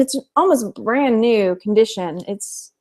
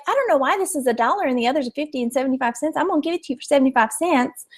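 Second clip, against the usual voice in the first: East Texas lady; 3 semitones higher, 4 dB quieter, much faster than usual. Retold or imitated. Retelling the charity shop lady's words, light East Texas accent. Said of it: "yes, she did talk like that".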